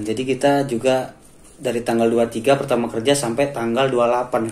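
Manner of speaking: talking around a cigarette; words past a cigarette between the lips; cigarette in mouth. Real, not acted. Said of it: "Tapi sambil ngerokok ya".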